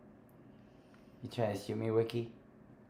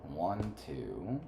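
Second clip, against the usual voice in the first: whispered counting; 4 semitones lower, 12 dB quieter, slower than usual. Real, not acted. Counting under breath.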